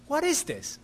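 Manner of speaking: imitating an indignant demand, pitched high; mock angry. Homeless man upset at the pastor's lunchbox, mock indignant. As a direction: replay the man's outrage, lightly. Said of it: "He was mad at me".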